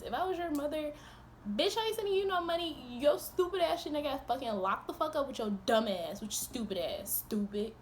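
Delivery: imagined mother's tirade, fast and sharp; mock mother scolding. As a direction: tear into him like a fed-up mother. Imagining scolding him as his mother.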